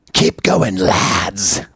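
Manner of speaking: lightly British reading of the email sign-off; a hint of a British accent, rising then dropping. Reading a listener's email sign-off to his co-host in a light British accent. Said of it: "you think he's British?".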